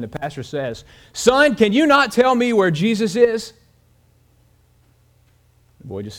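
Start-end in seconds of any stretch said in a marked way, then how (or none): 1.1-3.5 higher and louder, fed up; exasperated. Acted. Pastor to silent boy, exasperated and raised. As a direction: near the end of his patience, pushing hard. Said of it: "on the verge of exasperation".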